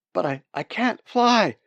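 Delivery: loud, high stammering cry; panicked protest. Acted. Wounded bird answers his brain, panicked. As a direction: protest desperately, pitch jumping up.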